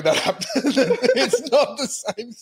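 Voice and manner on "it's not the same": giggling through the words; can't keep a straight face; laughing. Real, not acted. Host laughing at the botched third take, giggling.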